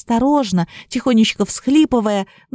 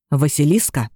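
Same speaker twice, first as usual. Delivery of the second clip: menacing hiss; 7 semitones lower than usual. A narrator's reading. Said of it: "угрожающе прошипел змей".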